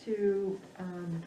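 muffled speech behind a mask; talking through a mask, slightly muffled; through a face mask. Real, not acted. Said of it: "it feels a little awkward to be talking through this mask".

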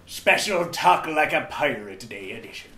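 put-on hearty pirate captain accent. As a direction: growl it out like an old sea captain. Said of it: "I'll be talking like a pirate the whole way through".

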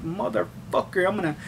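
muttered inner threat, building up; imagined rant building from hushed to heated. Retold or imitated. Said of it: "inside I'm just like".

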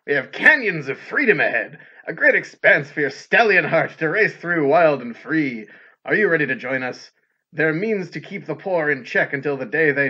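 loud, booming announcer read of a flyer; fighting game announcer. Shown as a demonstration. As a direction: announce it like a hype man. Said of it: "he just has the best announcer voice".

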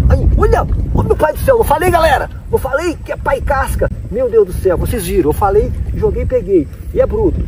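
high-pitched thrilled shouting over a big catch; excited squeals. Real, not acted. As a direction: squeal with delight, voice way up. Catches a huge fish, celebrating.

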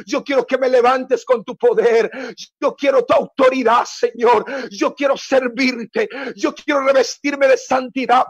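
a hint of an earnest pleading prayer; voiced prayer. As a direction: plead like someone praying for a touch. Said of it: "le ha estado diciendo a Dios". (oración suplicante imitada)

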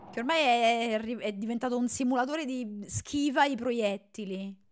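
ordinary talk

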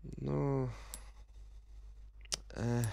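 ordinary delivery

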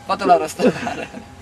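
loud indignant orders; mock outraged shout. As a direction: call for the guards, outraged.

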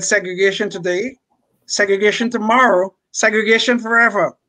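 lightly put-on Southern politician accent; fake George Wallace accent. Panelist quotes the governor's inauguration speech, lightly faked Southern accent. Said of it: "That's my fake accent".

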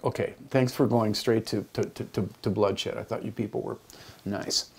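dry mock thanks to the class; satirical. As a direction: tease them gently for choosing bloodshed. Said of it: "Just being satirical".

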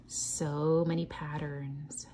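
slow hushed whisper. Real, not acted. Teacher marveling at the book, hushed whisper. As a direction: breathe it out in a whisper. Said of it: "whispered aside".

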